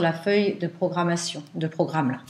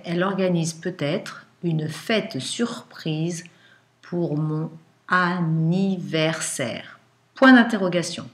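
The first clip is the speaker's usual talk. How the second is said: dictating; slower than usual. Shown as a demonstration.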